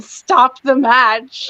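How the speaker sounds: mildly hammed-up imitation of yelling; imitated yell. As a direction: draw the words out as a mock shout. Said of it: "because he still yelled".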